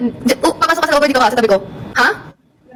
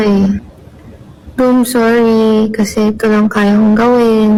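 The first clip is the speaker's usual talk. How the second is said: Mito Lim; 4 semitones lower than usual. Acted. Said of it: "paano pag sorry si Mito Lim?".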